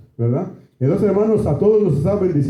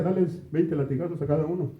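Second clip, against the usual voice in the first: secret order; 8 dB quieter than usual. Retold or imitated. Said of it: "en secreto le decía".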